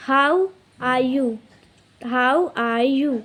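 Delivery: slow, careful teacher demo; slow model phrase. Shown as a demonstration. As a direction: spell the phrase out slowly. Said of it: "अगर इसी में आप doing add कर देंगे". (धीमे, साफ़ उच्चारण में)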